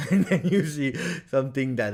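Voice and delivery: laughing while talking; real laughing. Real, not acted. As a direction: talk through a laugh that slips out. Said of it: "sorry if I'm laughing".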